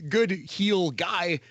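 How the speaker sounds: a slow, drawn-out "good heel guy", lightly mimicking Kalisto; Kalisto impression. Finishing the Kalisto catchphrase with a slow, light imitation. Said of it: "as Kalisto would say".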